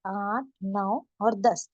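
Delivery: slow, drawn-out counting for students; teacher counting one to ten slowly; slow counting aloud. Shown as a demonstration. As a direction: count each number clearly for learners. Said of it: "इसको इस तरीके से पढ़ेंगे".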